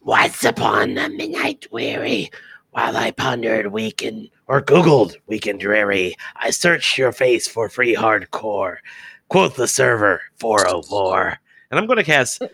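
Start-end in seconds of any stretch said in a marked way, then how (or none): 0.0-11.4 mildly ominous, slow recitation. Acted. Bard casting dissonant whispers at a creature, ominous. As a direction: recite it slowly with a touch of doom. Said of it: "in the most ominous voice I can muster".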